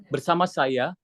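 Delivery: a short pause between bersama and saya; pause-marked bersama saya; small gap. Shown as a demonstration. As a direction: leave a little gap before saya. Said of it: "dikasih gap dikit".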